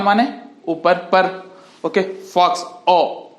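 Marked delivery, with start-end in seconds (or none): 2.2-3.3 short, quick "ओ" as in "फॉक्स". Shown as a demonstration. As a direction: keep the vowel in "फॉक्स" brief. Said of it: "जल्दी से मुख्तसर सा sound". ("फॉक्स" में छोटा, जल्दी वाला ओ)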